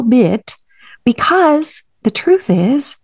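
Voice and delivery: hushed, confiding whisper. Real, not acted. Therapist confiding to a listener, whispering. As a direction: lean in and whisper the point.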